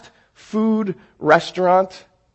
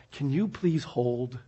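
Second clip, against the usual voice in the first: drive-through voice; 7 semitones lower, 14 dB quieter, slower than usual. Acted.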